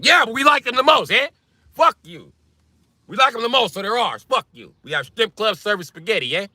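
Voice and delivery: high, pushy Italian-American guy; Italian accent. Acted. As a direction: argue back in a hammed-up Italian accent. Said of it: "The Italian accent".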